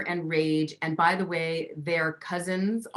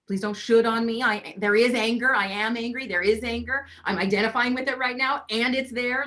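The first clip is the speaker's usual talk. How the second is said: insistent; 5 semitones higher than usual. Real, not acted. Insisting on her right to anger.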